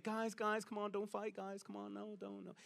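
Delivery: mock half-hearted plea, fading to a murmur; feeble peacekeeping. Fake-unity type calling off a fight, feeble and fading. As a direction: weakly play peacemaker, trailing off very softly. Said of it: "fake unity that, you know, this happy utopia".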